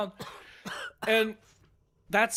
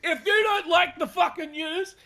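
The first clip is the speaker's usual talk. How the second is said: mock news anchor; 4 semitones higher than usual.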